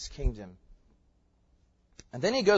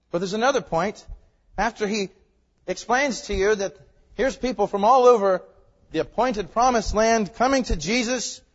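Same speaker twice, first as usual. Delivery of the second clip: louder, insistent pulpit voice; raised preaching; 6 semitones higher, 9 dB louder than usual. Real, not acted. Preacher explaining the crowds to his congregation, raised preaching. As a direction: lift the voice to preach.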